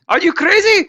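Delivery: put-on very high shrieking South Asian accent. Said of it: "literally India and Pakistan's entire history".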